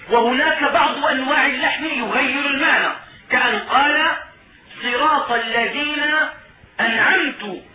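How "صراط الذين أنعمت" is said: أنعمت ending in -tu instead of -ta; wrong vowel. Shown as a demonstration. Teacher showing a meaning-changing recitation error. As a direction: say أنعمت as anʿamtu, the last vowel turned to u. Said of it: "جعل نفسه منعما".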